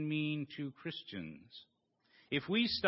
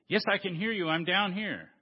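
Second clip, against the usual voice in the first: eager reply; 4 semitones higher, 4 dB louder than usual. Acted. Jack answers hanging from branch.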